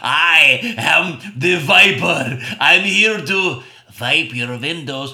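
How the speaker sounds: very slow, loud booming announcement; dramatic villain. Retold or imitated. Window washer announcing himself, slow loud boom. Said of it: "he lifts up his arm and he goes".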